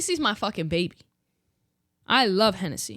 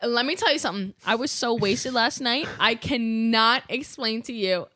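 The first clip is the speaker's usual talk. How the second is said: put-on British accent. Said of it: "but with the accent".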